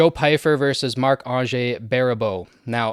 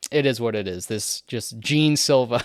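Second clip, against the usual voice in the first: French accent. Real, not acted. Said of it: "I gotta take the French accent off there".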